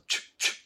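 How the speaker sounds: "チュッチュッ" like blowing kisses; short puckered bursts on "チュッチュッ"; blown-kiss CH. Shown as a demonstration. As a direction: say "チュッ" as a quick kiss sound. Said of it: "投げキッスのチュッチュッ".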